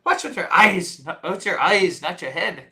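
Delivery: retold line in mock Irish accent. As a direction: lightly put on an Irish brogue. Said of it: "what's an Irish thing to say".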